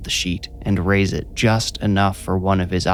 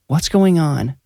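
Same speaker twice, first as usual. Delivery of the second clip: higher, worried mother's voice; concerned mom; 8 semitones higher than usual. A narrator's reading. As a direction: ask like an anxious mom.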